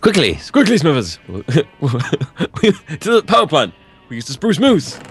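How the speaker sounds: lightly voiced Mr. Burns, urgent; a hint of the boss hurrying his assistant; mild mock Mr. Burns rushing Smithers; Mr. Burns impression. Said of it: "The Simpsons".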